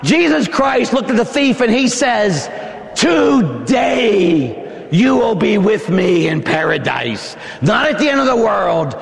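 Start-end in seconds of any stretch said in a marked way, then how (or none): 2.9-7.4 Jesus's promise. Acted. Preacher voicing Jesus on cross.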